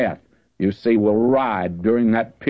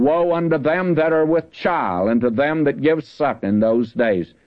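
raised, solemn Bible reading voice; scripture reading; 3 semitones higher than usual. Acted. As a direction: read the verse out like from the pulpit. Reads scripture aloud.

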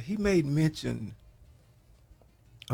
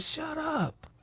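retold hush; 3 dB quieter than usual. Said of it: "he said".

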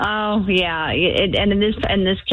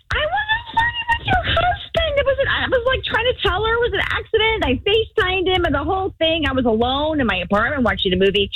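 pleading in a much higher voice; high, defensive and fast; high flustered protest; 10 semitones higher than usual. Retold or imitated. Retelling her own protest.

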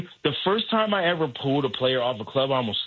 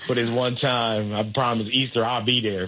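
bargaining prayer; 3 semitones lower than usual. Retold or imitated. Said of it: "So I'm making deals".

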